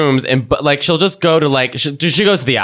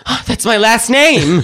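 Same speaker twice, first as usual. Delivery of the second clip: high, slow, laughing quote; laughing imitation of an eager client; laughing mock client; 8 semitones higher, slower than usual. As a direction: squeal it through a laugh.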